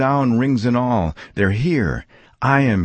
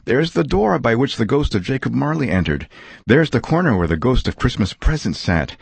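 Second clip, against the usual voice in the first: put-on higher, wonder-struck old man, slowing at the end; marveling Scrooge; 6 semitones higher than usual. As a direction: lift every line with amazed joy. Scrooge marveling in his room.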